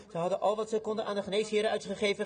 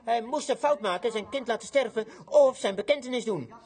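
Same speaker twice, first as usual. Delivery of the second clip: raised, emphatic preacher's voice; forceful preaching; 5 semitones higher, 3 dB louder than usual. Acted. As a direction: preach it with rising weight.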